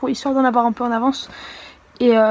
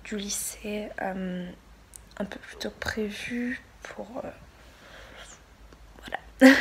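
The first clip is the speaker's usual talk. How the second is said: tired hushed whisper; 2 semitones lower, 9 dB quieter than usual. Real, not acted. Tired low late-night talk.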